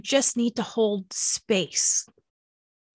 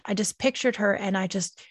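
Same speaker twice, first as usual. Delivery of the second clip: ordinary delivery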